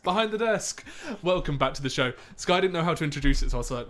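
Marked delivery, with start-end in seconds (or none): 0.0-2.1 loud, high host voice; grand radio presenter opening; posh radio voice. Pretend. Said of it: "such a posh voice today".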